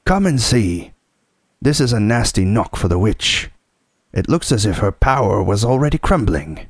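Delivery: bubbling over with excitement; delighted. Acted. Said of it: "almost dancing with delight".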